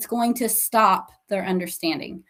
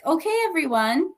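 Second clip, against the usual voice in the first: bright class call; 6 semitones higher, faster than usual. Shown as a demonstration. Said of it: "she can ask".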